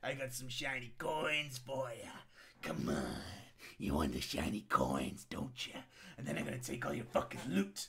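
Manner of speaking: low, soft, sinister coaxing; a shady dealer murmuring low about shiny coins; creepy luring voice. Retold or imitated. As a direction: lure a victim in with a hushed, creepy murmur. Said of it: "He was like".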